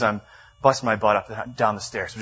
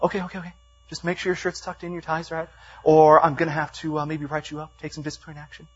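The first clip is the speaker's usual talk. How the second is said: lightly voiced manager; 5 semitones higher than usual. Acting out the nagging manager.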